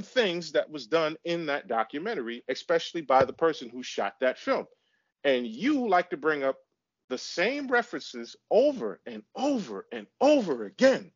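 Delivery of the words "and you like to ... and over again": high-pitched, emphatic complaint; fed-up, raised-pitch rant; exasperated. Real, not acted. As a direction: scold your co-host for endlessly repeating himself. Exasperated quarrel with co-host.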